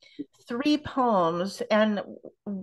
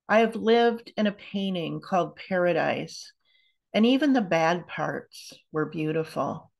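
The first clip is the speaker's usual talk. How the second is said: measured poem recital, phrase by phrase with pauses; poetry reading. Acted. Poet reads to an online audience, measured poetry reading. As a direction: read it aloud as a poem, each line set apart.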